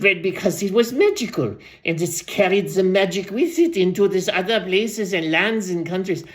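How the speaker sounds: lightly voiced rambling old storyteller; aging storyteller. Old storyteller tells the crowd about butterflies, lightly put-on voice. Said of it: "I'll go back to Random's voice".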